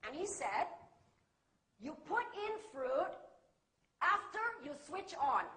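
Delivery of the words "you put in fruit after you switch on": measured local Malaysian English instruction. Retold or imitated. Manager instructing new British worker, local English. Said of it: "how local English can be".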